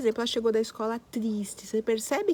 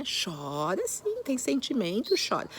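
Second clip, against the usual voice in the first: gentle permission; slower than usual. Real, not acted.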